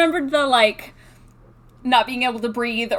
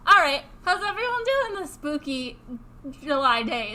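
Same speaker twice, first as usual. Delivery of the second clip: ghost voice. Pretend. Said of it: "your ghost voice could use some work".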